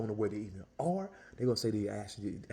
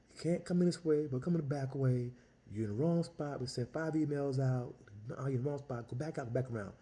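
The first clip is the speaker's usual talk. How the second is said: raised, hurried telling-off; urgent correction; 3 semitones higher than usual. Retold or imitated. Old guy at her car window, raised and urgent. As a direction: set her straight fast before she parks.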